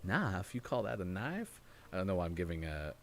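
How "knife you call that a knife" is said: put-on pseudo Southern accent. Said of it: "giving Crocodile Dundee a pseudo Southern accent".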